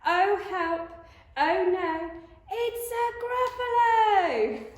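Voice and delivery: high, loud cry of fright; alarmed mouse. Acted. Mouse suddenly meets the Gruffalo, terrified. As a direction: cry out, building to a long drawn-out wail.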